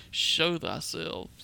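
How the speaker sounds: slow, loud regal elf command; noble high elf. Acted. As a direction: proclaim it like a noble elf lord. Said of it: "in my most noble high elf tone".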